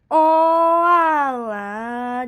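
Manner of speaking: loud, drawn-out "Oh, alah" of mock shock; surprised groan. Real, not acted. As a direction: blurt it out in shock. Reacts to the TV suicide. (kaget keras)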